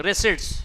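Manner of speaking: रिसिप्ट्स said ri-sits, no p; silent p. Shown as a demonstration. Teacher modelling the right form, रिसिप्ट्स with silent p. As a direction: say रिसिप्ट्स without the p. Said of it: "रिसिप्ट नहीं पढ़िएगा कभी भी".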